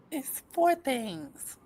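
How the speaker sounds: slow, muffled words around a retainer; wearing a retainer. Real, not acted. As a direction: talk with the retainer still in. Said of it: "let me take out my retainers".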